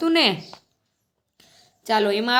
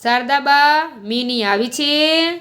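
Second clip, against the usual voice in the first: calling out; 3 semitones higher, slower than usual. Acted. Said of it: "બૂમ પાડી".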